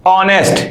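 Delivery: ऑनेस्ट with no h sound, starting on the vowel "aw"; silent h. Shown as a demonstration. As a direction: say ऑनेस्ट as "onest", the h dropped. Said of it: "इसको हम ऑनेस्ट पढ़ते हैं". (ऑनेस्ट, एच बिल्कुल नहीं बोलना)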